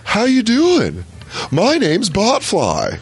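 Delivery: high, slow little creature greeting; squeaky critter introducing itself; botfly voice. Pretend. Hosts watching removal video, botfly voiced high and slow.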